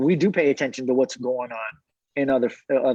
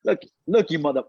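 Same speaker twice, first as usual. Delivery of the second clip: mock translation. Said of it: "What she really saying".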